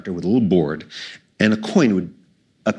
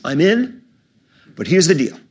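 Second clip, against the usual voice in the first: put-on higher, louder, firm old man; gruff old director; 8 semitones higher, 6 dB louder than usual. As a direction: play the feisty old director. Voicing Frank Capra, old director.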